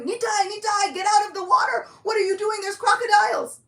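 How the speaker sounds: frantic high shout; calling out. Acted. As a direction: yell across the water in alarm. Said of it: "I'm calling after him".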